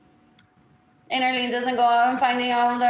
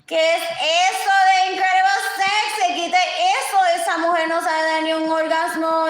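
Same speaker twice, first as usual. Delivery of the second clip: outraged quote; 4 semitones higher, 4 dB louder than usual. Retold or imitated. Quoting outraged people.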